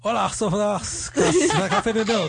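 mock Swedish, high, giggling; high laughing attempt at "kaffe med mjölk"; fake foreign language. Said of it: "Yeah, kind of".

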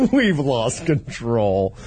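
drawn-out slow repeat; slow dramatic echo. Acted. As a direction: stretch it out slowly. Echoed slowly, dramatic.

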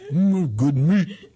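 slow, halting hums and pronouncements; father impression. Daughter imitating her father hatching a shark plan, father impression. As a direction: chew over each phrase, long gaps between. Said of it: "That's how he talks".

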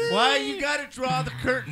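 laughing, loud and high. Real, not acted. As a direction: still cracking up as you say it. Still laughing at the joke.

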